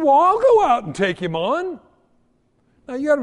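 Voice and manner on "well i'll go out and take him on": higher and louder, bold and keen; eager boy's boast. Retold or imitated. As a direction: jump in to volunteer with spirit. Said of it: "And he said".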